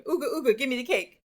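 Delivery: playful, lightly voiced monkey chant. Teacher imitating a monkey wanting cake, playful monkey voice. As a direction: chant it like an excited monkey, hammed-up. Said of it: "a monkey jumping around going".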